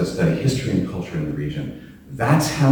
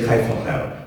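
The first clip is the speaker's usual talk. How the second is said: kayf al-hal said in Arabic with a plain American accent; 3 dB quieter than usual. Shown as a demonstration. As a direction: try kayf al-hal as an American speaker would. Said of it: "to say it with a bad accent, as I do".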